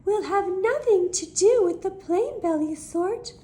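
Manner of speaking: high, haughty snort of disdain; snooty sniff. A narrator's reading. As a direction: look down your nose at them. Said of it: "they would sniff and they'd snort".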